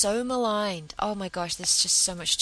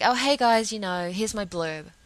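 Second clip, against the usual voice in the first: breezy, offhand "oh hey guys", louder at the start; mock casual; 5 dB louder than usual. Emailing coworkers her blurb, breezy mock casual. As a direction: toss it off like it's nothing. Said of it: "I sent an email to them very casually".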